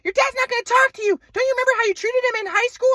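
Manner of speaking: mock mom voice. Son mocking his mother's insults on the phone, high-pitched. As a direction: parody mom's insults in a high voice. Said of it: "She said".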